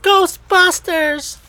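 high, slow, belted jingle; Ghostbusters shout. Pretend. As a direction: belt it like the theme song.

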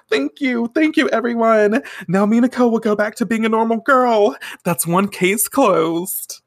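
high, hammed-up heroine thanking her fans; grateful star. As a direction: gush to an imaginary crowd. Delusional heroine thanking imagined crowd.

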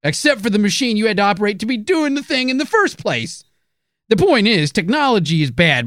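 put-on high, cranky old-timer rant; old prospector. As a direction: rant like a grumpy old coot. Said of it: "Okay, Coomer".

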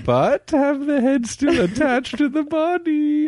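high, slow mock-British queen; British royal command. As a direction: order a servant in a hammed-up British accent. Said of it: "in a British accent, order your servant".

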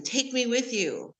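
mild mock child begging father to stay; imitating child begging. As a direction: replay the little kid's plea to dad. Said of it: "you know, begging him".

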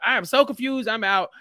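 fed-up viewer. Retold or imitated. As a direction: toss it off like you're done with it. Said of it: "people like".

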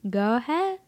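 put-on sloppy, slurring drunk man. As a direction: whine like a drunk guy. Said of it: "I'll just do my drunk voice".

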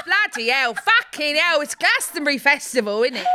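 hammed-up singer impression, shouting with laughter in the voice; a singer impression. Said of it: "can you do a singer impression?".

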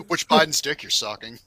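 talking through laughter; laughing. Real, not acted. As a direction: giggle the words out. Joking crudely about Biden.

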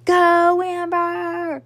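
high, long-held whoop; loud cheer. A narrator's reading. Friend cheers Amber up to the stage, loud drawn-out whoop. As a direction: cheer her on, stretching out each word. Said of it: "Veronica applauded loudly".

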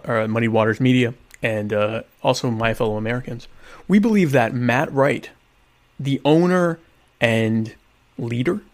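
stately, halting campaign pitch; mock formal endorsement. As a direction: deliver it like a solemn press statement, with long pauses.

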